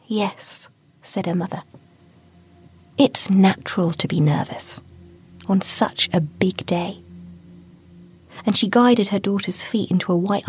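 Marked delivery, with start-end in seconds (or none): 0.1-7.0 calm her nerves gently; soothing mother. Acted.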